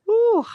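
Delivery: high, loud sarcastic woo; a rueful cheer before the bad news; mock whoop. Real, not acted. Host bracing to discuss disappointing sequels, ironic whoop. Dreading talk of later seasons.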